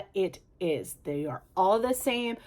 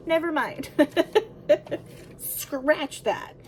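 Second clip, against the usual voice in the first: higher, breaking into giggles; laughing it off; 6 semitones higher, slower than usual. Real, not acted. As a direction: laugh through the words, embarrassed at a slip. Laughing off own mistake.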